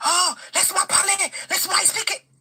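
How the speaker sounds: mock shouting. Retelling a man shouting during a parking dispute: imitating someone shouting. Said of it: "This guy starts to shout at me".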